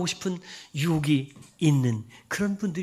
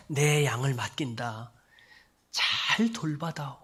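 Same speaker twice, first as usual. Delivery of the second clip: slow and gentle; tender charge; slower than usual. Acted. Jesus handing his flock to Peter, slow and tender. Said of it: "이렇게 말씀하시는 거예요".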